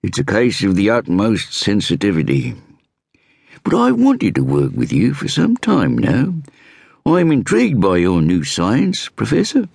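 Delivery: lightly voiced inspector introducing himself; inspector's voice. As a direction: play the self-assured Scotland Yard inspector. Inspector flattering Hatton.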